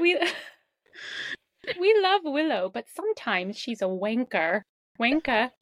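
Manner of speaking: American's mock British with a laugh breaking in; playful, imperfect British accent; put-on British accent. American reading teasing lines about a friend, put-on British accent. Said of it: "talk like a British person".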